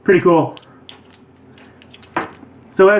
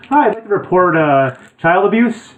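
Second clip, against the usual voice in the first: mock phone call; 4 semitones higher than usual. Prank call to social services.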